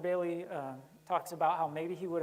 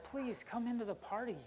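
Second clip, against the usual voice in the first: higher, softer pleading father; begging; 4 semitones higher, 6 dB quieter than usual. Retold or imitated. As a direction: coax the son gently to come in. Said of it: "almost like begging".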